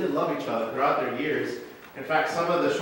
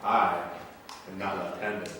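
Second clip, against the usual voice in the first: lower, very slow, drawn-out reveal of I am not left-handed; sly dubious reveal; 7 semitones lower, 6 dB quieter, much slower than usual. Shown as a demonstration. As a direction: savor the trick, slow and low. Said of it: "It has some moments where it says".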